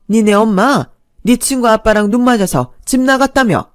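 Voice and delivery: mother-in-law berating her son's wife, loud and scornful; scolding mother-in-law. Acted.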